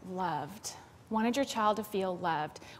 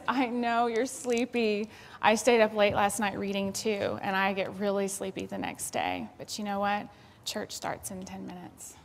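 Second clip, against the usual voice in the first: sincere empathy. Shown as a demonstration. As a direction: soothe the sleepy child kindly. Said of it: "It is this".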